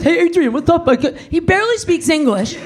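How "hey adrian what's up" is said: lightly put-on Philly mumble, slightly raised; Rocky impression. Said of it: "He talks like this".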